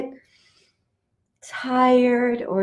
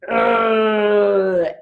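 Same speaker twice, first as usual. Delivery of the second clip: angry growl; 3 semitones lower than usual. Shown as a demonstration. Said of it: "angry today?".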